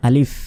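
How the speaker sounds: আলিফ said short, without drawing out the vowel; teaching demo of আলিফ with no lengthening; short, no stretching. Shown as a demonstration. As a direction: keep আলিফ brief, no prolonged sound. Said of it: "কোনো টানা যাবে না".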